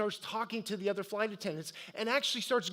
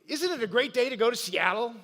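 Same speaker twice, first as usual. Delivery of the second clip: cheery joking greeting; 3 semitones higher, 4 dB louder than usual. Retold or imitated. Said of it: "And I said".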